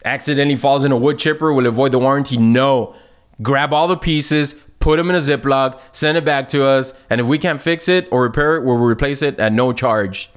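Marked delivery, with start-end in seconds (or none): 3.4-10.3 robot voice. Acted. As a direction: recite the policy like a robot. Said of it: "I'm talking like a robot".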